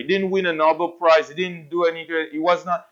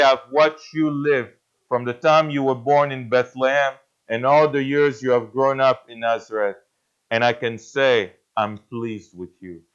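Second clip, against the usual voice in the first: tender fatherly God; 4 semitones lower than usual. Retold or imitated. God speaking to Jesus.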